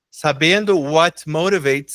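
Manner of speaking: devagar, separando cada palavra; frase modelo lenta. Shown as a demonstration. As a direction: leia devagar para o aluno repetir. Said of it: "professor demonstra frase devagar". (frase de exemplo dita bem devagar)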